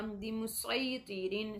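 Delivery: बिमुसैतिरीन slow, with a thick, heavy s; बिमुसैतिरीन with an emphatic s; heavy sad. Shown as a demonstration. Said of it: "स्वाद की आवाज़ निकालनी है".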